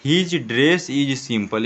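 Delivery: very slow, each word spelt out for pupils; slow model reading. Shown as a demonstration. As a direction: read it out slowly like a teacher. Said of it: "एक बार देखने का प्रयास करें". (धीरे-धीरे साफ़ पढ़कर सुनाना)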